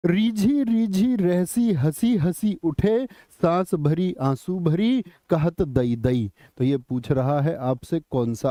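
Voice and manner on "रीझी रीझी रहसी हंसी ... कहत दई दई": slow, measured recital falling at the end; verse recitation. Acted. Teacher reading the question's verse to students, slow recitation. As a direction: recite the couplet line by line, drawn out.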